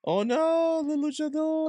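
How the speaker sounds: high, loud surprised cry; surprised shriek. Real, not acted. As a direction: yelp in shock at the reveal. Mask comes off.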